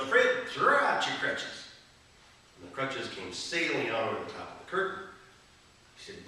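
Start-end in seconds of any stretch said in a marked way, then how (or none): 0.0-1.7 much higher, loud, slow Southern healer's yell; preacher's yell. Retold or imitated. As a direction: bellow it at the curtain like a tent preacher. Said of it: "He turned to the curtain and yelled".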